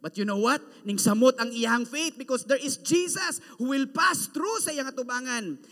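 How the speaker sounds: normal talking voice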